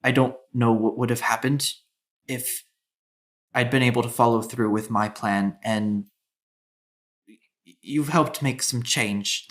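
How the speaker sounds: mildly choked up, halting with long pauses; understated emotion, groping for the words; overwhelmed with emotion. Acted. Grateful woman to those who helped her, mildly overwhelmed. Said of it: "she just looks very overwhelmed with emotion".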